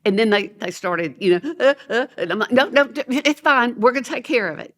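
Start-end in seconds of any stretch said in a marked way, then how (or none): 1.6-2.1 imitated crying hiccups; playful fake sobs; mock child whimpers. Imitates children starting to cry. 2.5-4.7 higher-pitched flustered soothing; head off the tears quickly; acted panicky comforting; hurried reassurance. Retells hurriedly soothing crying children.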